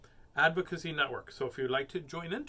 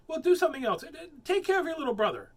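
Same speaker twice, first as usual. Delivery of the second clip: loud, high nagging mom; mother scolding Danielle, louder and higher; bossy mother; 11 semitones higher, 6 dB louder, faster than usual. Acted. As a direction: scold her into moving. Mother giving next order.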